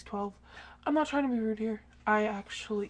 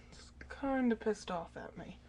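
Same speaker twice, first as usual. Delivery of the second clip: whisper; 2 semitones lower, 8 dB quieter than usual. Real, not acted. Whispering beside the sleeping dog.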